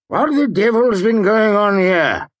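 high, loud angry demand. A narrator's reading. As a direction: bellow at the room. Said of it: "he demanded".

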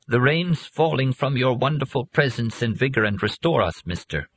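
thin, wavering and frail; weak voice that wavers. A narrator's reading. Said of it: "said in a wavering, frail voice".

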